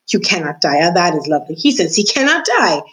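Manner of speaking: a lightly voiced jailer, rising in scornful glee; a hint of a jailer mocking the mouse. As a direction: savour the mouse's words with scorn. Gregory mocks the mouse.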